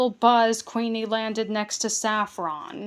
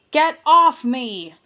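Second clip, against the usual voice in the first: spluttering; 3 semitones higher, 8 dB louder than usual. A narrator's reading. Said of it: "spluttered the goblin".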